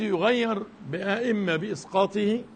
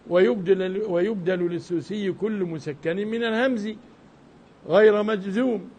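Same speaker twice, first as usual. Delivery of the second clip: verse recitation. Acted. Quotes the next verse.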